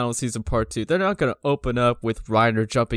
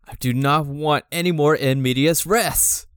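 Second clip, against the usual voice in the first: mock whine; 3 semitones higher than usual.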